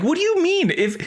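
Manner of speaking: high, exasperated protest; indignant Balaam. Acted. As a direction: play the outraged rider scolding his donkey. Voicing Balaam arguing with donkey.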